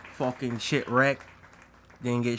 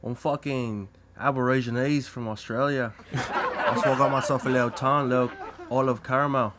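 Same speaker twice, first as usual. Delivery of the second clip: mock Australian. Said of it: "you guys have some accents going on".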